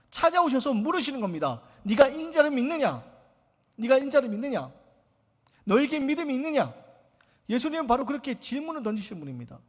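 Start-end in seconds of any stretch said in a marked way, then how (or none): 1.8-6.7 voicing Jesus. Preacher voices Jesus' question, rising.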